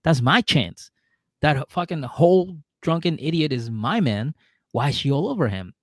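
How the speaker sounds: mildly indignant imitation of a jealous girlfriend; acted-out jealous grievance; retold jealousy. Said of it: "Taylor gets jealous".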